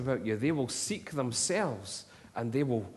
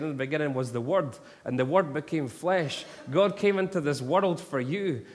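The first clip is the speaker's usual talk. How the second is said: retold street preaching; 2 semitones higher, 3 dB louder than usual. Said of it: "Andy Moyes screaming at the top of his lungs".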